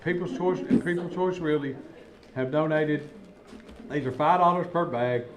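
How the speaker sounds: talking through a mouthful; words round a bite of candy; mouth full. Real, not acted. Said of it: "You're talking with your mouth full".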